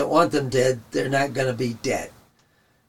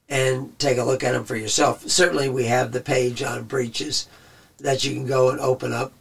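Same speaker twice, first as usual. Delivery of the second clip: tired, hoarse voice. Real, not acted. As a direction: voice starting to go hoarse. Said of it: "I'm already losing my voice".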